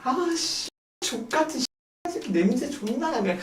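high, hushed cursing aside; secret grumbling. Acted. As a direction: curse softly behind the customer's back. Hostess secretly cursing the customer.

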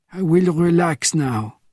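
a hint of an old spy settling in, slowed down; easy, slow old-man calm; old man taking his time; lightly voiced old man, slow and unhurried. Bernardin settling in.

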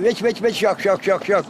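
rhythmic opening into struck şak notes; bird song example. Shown as a demonstration. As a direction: imitate a finch's phrase. (saka ötüşü taklidi)

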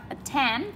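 attend rising on TEND; at-TEND, lifted at the end; stress on second syllable. Shown as a demonstration. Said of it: "Chúng mình đánh trọng âm hai".

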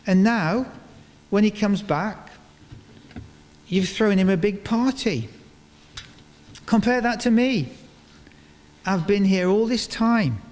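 resentful elder son. Retold or imitated. Preacher voicing the elder son griping to his father, aggrieved. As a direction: whine about the unfair party. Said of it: "the elder son says to his father".

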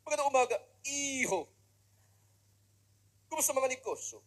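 polite upper-class greeting, lightly mocked; posh rich lady voice. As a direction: lightly play a refined rich mother greeting her son. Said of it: "Pag mga mayayaman, ganyan magsalita eh".

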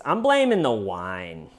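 swooping imitation of a suspect's declaration; mock proclamation. Suspect blames wine to detectives, mock proclaiming. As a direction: announce it with a rise and long fall. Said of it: "She goes like this".

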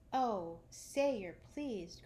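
slow, pleading lift; eager plea. Acted. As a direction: beg her to be pleased. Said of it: "cried Nibs".

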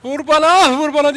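high, loud imitated cry; mock yell. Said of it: "diye bağırıyordu". (taklit ederek tiz sesle bağırma)

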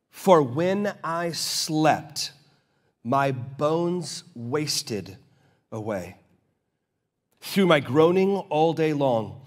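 slow, measured Bible reading; scripture reading. Acted. Preacher reading Psalm thirty-two to the congregation, slow and solemn. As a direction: read the psalm slowly and let it sink in.

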